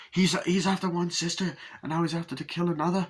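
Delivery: mock incredulous outburst. Doctor stunned by sister revelation.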